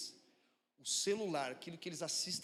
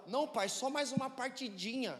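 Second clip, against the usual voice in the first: put-on higher pleading little-boy voice; son pleading; 5 semitones higher than usual. Five-year-old son begging his dad for one more game, pleading. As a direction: beg for one more game like a small kid. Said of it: "Aí o Theo ficou lá".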